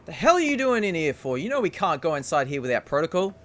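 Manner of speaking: a hint of an indignant guard, quickening; approaching guard's voice. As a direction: scold a colleague from down the hall. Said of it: "a voice say".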